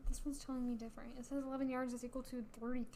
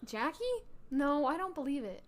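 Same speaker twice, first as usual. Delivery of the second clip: sneering fake sweet; 2 semitones higher, 3 dB louder than usual. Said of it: "my Mean Girl voice".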